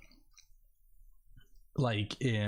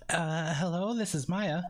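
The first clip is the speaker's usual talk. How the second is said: put-on a lightly raised, cute girly voice; 5 semitones higher than usual. Answering the phone as Maya, cute girly voice. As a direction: play it sweet and girly, a bit higher. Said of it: "time to do a cute girly voice".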